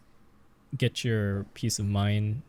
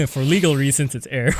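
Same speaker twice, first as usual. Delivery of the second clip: laughing mock disclaimer; 6 dB louder than usual.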